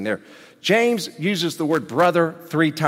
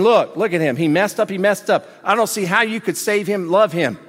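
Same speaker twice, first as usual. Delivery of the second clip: accusing devil; 3 semitones higher than usual. Retold or imitated. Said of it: "devil accusing, saying".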